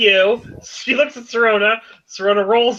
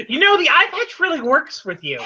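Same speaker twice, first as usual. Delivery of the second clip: lightly voiced character, higher pitch; Lena; 5 semitones higher than usual. Lena looks over at you, teasing in a higher voice. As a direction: say it teasingly high, as a compliment. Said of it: "she's like".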